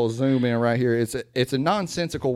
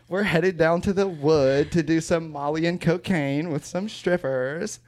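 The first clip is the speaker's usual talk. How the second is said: put-on slow SoCal drawl, California surfer accent; Californian accent; 3 semitones higher, slower than usual. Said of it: "So where's your Californian accent?".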